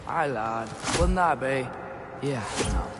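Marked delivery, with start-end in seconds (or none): 0.1-1.7 put-on a failed stab at Mimir's Scottish-like accent; bad Mimir accent. Atreus mimicking Mimir, poor Scottish-like accent. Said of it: "I can't do your accent".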